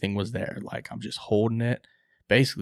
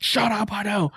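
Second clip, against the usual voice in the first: high, raised-voice comeback; retold exasperated retort; 12 semitones higher, 5 dB louder than usual. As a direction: cut him off in exasperation. Snaps back in retold call.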